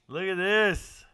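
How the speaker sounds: loud, high look at this; excited. Real, not acted. Streamer hyping the touchdown replay, loud and high. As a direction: build up the hype.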